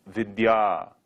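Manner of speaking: vidya as "vid-yaa", long final a; model pronunciation of vidya. Shown as a demonstration. Teacher giving the next word to repeat, drawn-out vidya. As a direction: hold the last vowel of vidya long. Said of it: "Say vidya".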